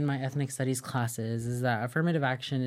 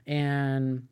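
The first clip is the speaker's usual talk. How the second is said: all in one breath. Real, not acted. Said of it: "I just talked without taking a breath".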